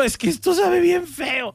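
high, slow whine of "Es que esto sabe bien feo"; child protesting the food, high and slow; whiny crying child. Retold or imitated. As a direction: whimper it like a kid forced to eat. Child complaining while crying at table.

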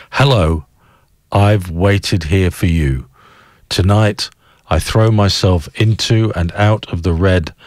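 measured recitation in separate phrases; spoken-word poetry. A narrator's reading. Radio host reading song lyrics as a poem, measured recitation. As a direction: read song lyrics as solemn verse, with pauses.

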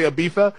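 Ibiza as in Castilian, z as th. Shown as a demonstration. Host admits the true form, Ibiza with th. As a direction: soften the z in Ibiza to th. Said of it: "since it is a Z".

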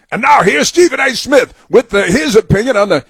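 sneering game-show introduction; sarcastic announcer intro. Acted. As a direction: announce him like a big star, dripping sarcasm.

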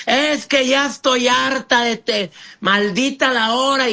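high, slowed, exasperated outburst; a hammed-up angry complaint; mock yelling partner. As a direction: play the fed-up partner snapping back. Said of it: "y gritando".

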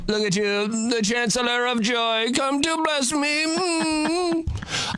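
rising high, slowing gushing coo; overwhelmed by cuteness. Retold or imitated. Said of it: "This is what I say to my dog".

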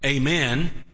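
Southern "AY-men" with a long AY; Southern accent. Shown as a demonstration. Preacher showing the congregation how to say amen, Southern accent. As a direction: say AY-men like a Southerner, lifting at the end. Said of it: "like a Southerner".

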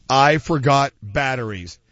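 slow, ominous ad line; spooky commercial delivery; drawn-out ad read. Acted. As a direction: drag it out like a scary warning. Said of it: "Wait, what?".

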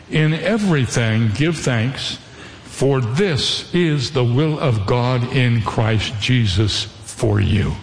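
slow, deliberate verse reading; solemn scripture reading. Acted. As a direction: read the verse out slowly, weighing each phrase. Reads a Bible verse.

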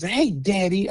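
a hint of an eager daughter; imitating his daughter. Daughter greeting dad on the phone, lightly imitated. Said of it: "my dad was".

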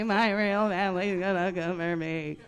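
imitating a scared kid, loud but at normal pitch; panicked whine. Little sister repeating her fear, loud whine. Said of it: "She started freaking out".

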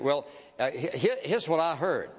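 halting mock answer with stammered false starts; foggy, hesitant impression of someone unprepared; wobbly, unsure answer. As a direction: stumble into it, unsure of your ground. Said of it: "you wobble around".

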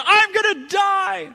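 slow high panicked shout; high drawn-out panicked yell. Retold or imitated. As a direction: cry out like you're dying. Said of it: "and I yelled".

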